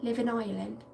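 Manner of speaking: lightly played Irish accent; playful hint of an Irish accent; put-on Irish accent. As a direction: try on an Irish lilt. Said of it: "There's the accent".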